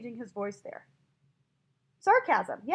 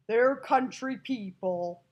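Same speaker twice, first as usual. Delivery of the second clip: slow, louder hint of a Texan country accent; 5 dB louder, much slower than usual. Teacher describing how Americans are portrayed, country accent. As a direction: stretch it out with a country twang. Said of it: "using that pronunciation to show".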